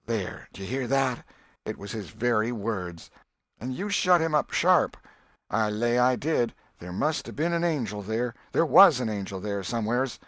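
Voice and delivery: put-on an old aunt sure an angel was there; Aunt Polly voiced.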